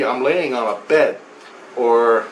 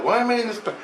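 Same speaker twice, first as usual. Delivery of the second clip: confused laugh; 9 semitones higher, much faster than usual. Retold or imitated. Confused in a hospital bed.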